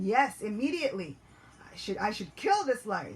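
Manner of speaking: loud, fired-up agreement; eager resolve. Acted. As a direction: seize on the idea with vengeful zeal. Fooled demon eagerly agrees.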